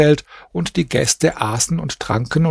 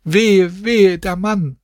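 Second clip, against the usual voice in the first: higher, mourning wail in a lightly voiced woman's tone; keen over the dead man, a touch higher; women's wailing; 6 semitones higher, slower than usual. A narrator's reading. Mourning women follow the slave through the streets, wailing higher. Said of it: "folgten mir mit entblößtem Gesicht und schrien".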